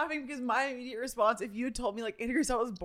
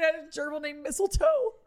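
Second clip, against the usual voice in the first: normal talking voice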